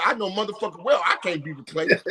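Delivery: chuckling through the words; laughing. Real, not acted. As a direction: laugh as you brag. Laughing while boasting.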